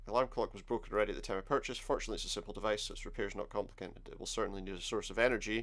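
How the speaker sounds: reading the game's lines fast; quick text read. Acted. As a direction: rattle through the game text. Reads game text fast.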